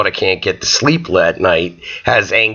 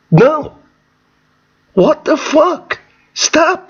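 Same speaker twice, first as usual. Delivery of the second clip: outraged no; much slower than usual. Real, not acted. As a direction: explode at the audience. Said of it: "comedian rejects the fairy tale".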